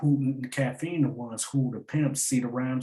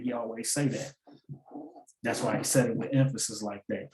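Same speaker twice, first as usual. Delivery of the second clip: normal talking voice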